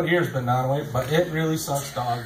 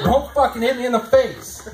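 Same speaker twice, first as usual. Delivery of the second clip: higher, laughing tell-off; laughing mock scold; 6 semitones higher than usual. Comic scolding nephew after knocking him down, laughing. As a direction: scold the kid while cracking up.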